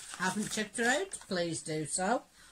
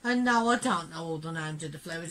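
hoarse, croaky from a cold; 3 dB louder than usual. Real, not acted. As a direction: talk through a croaky throat. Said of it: "sorry for the croaky voice".

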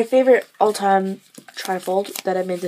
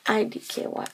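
IDKY; 6 dB quieter than usual. Acted. Same phrase whispered after loud take.

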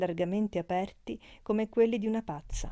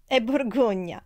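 lively, raised and louder, lightly amused; laughing reply; 4 semitones higher, 7 dB louder than usual. A narrator's reading. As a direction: say it with a touch of amusement. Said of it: "disse Leona ridendo". (detto con un accenno di riso)

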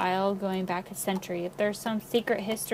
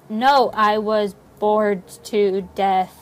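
"bored to death" slow and loud, word by word; drawn-out, loud stress on "bored to death"; emphatic denial; 7 dB louder, much slower than usual. Acted. Irritated denial of being scared.

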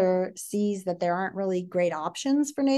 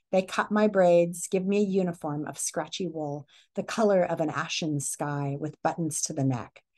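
story read-aloud. A narrator's reading.

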